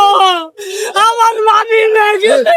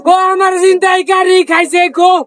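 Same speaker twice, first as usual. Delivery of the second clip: snotty crying. Real, not acted. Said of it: "এই ভাই, কান্দেন না".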